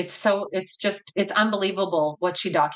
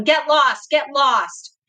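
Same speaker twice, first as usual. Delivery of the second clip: a louder, raised voice with a mild mock yell; retold yelling; 4 semitones higher, 4 dB louder, much slower than usual. Boy yelling at Satan, a mild mock yell. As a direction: throw it out sharply, as if yelling at the devil. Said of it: "he's yelling".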